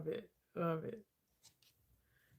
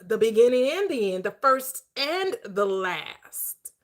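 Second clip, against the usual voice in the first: scripture recitation. Acted. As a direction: intone each line with a pause, like holy writ.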